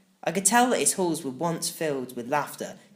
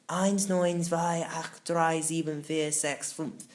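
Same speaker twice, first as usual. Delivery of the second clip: little crab voice; 3 semitones higher, much slower than usual. Acted. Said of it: "the little crab repeated louder".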